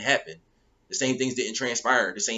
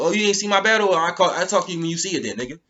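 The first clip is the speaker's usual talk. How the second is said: dismissive retort; 4 semitones higher than usual. Pretend. Imagined retort hanging up phone.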